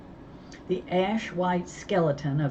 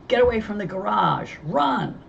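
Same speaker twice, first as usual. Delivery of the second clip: urgent command; 5 semitones higher, 4 dB louder than usual. Acted. Ordering kids away from fire.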